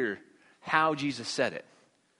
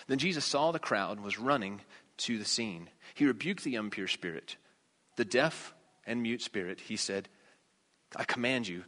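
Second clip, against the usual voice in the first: low, measured Bible reading; scripture reading; 5 semitones lower, 5 dB quieter than usual. Acted. Preacher reading the passage to his congregation, subdued scripture reading. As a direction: read the verses aloud, subdued and even.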